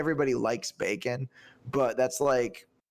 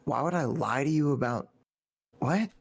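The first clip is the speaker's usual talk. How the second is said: mock-baffled retort, climbing higher at the end; incredulous; 3 semitones higher than usual. Boyfriend answers girlfriend's doubting mom, incredulous. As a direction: retell your disbelief, pitch jumping up.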